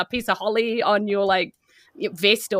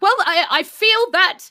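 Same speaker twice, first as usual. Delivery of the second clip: put-on higher, warm praising old man; jolly Santa; 8 semitones higher, 4 dB louder than usual. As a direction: praise the helper kindly, high and slow at first. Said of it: "and is like".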